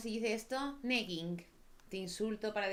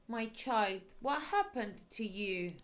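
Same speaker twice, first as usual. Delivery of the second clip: higher, louder, slow kindly priest; concerned priest; 4 semitones higher, 4 dB louder, slower than usual. Acted. Priest finding a hurt girl at the church door, concerned. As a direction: ask gently, alarmed for the child.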